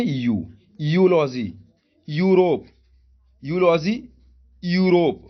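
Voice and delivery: यूलॉजी और यूरोप में साफ़ यू; यू की आवाज़ से शुरू करो; yoo sound demo. Shown as a demonstration. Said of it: "तो इसको क्या पढ़ेंगे?". (यू वाला उच्चारण)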